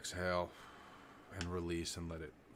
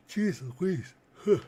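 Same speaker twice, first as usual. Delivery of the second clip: surprised; 12 semitones higher, 11 dB louder, slower than usual. Real, not acted. Sudden exclamation mid-lesson.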